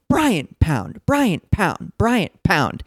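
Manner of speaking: rhythmic imitation of yelling, falling each time; mock yelling in rhythm. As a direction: chant it as a mock scolding yell. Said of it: "Troll Doll, is now yelling at him".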